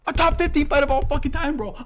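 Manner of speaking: very high, loud outraged shout; losing his mind. Real, not acted. Fan losing his mind over a forgotten fight, outraged shout. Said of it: "I'm really gonna fucking lose my mind".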